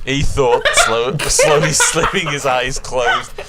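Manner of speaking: reading through giggles; can't keep a straight face; laughing. Real, not acted. Narrator breaks up laughing.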